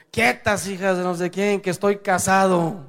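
mock-indignant outburst; indignant drunk husband. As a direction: imitate a drunk fending people off. Acted drunk husband rebuffing undressing women.

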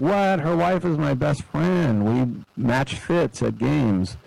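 high, slow, outraged disbelief; indignant wife. Retold or imitated. Kittle's wife reacting to the Niners cutting Juszczyk, mock outrage. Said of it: "Kittle's wife is like".

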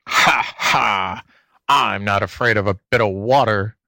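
sly fox snickering; the fox snickering at the rabbit's gun. A narrator's reading. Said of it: "snickered the fox".

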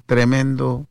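ordinary talk

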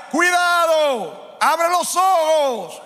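very slow, high shouted warning; voice of God warning. Acted. God warning the preacher, slow shouted command. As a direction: stretch each word out like a divine command. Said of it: "Dios me ha dicho y me reitera".

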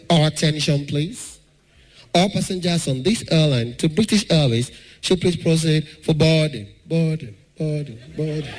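mock echoing airport announcer; airport announcement. Imitating the airport announcer calling passengers to board, echoing. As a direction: announce it like a tannoy with echo. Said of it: "The voice they come with echo".

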